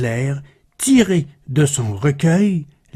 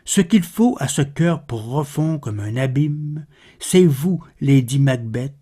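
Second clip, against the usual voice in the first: measured, solemn verse reading with pauses; poetry read aloud, more subdued than an introduction; poem recitation; 3 dB quieter than usual. Acted. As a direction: recite the verse evenly, pausing between phrases. Recites a poem after spoken introduction.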